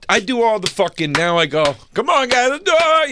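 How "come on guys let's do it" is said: high-pitched rallying cheer; hyping the table. Retold or imitated. Gambler gets the energy up at the table, excited cheer. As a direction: whoop up the players.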